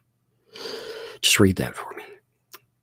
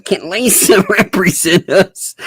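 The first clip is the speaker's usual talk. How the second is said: mock filing voice; 7 semitones higher than usual. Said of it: "I'm imagining a pro se filing being like".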